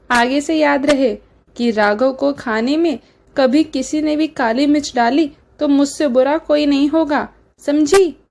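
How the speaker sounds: a touch of angry scolding, rising on समझी; stern warning. Acted. Mother-in-law warning the bride, mildly angry. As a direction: scold her and drive it home.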